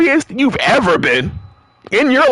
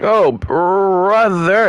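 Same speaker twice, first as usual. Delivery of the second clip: exasperated; much slower than usual. Real, not acted. Drawn-out catchphrase.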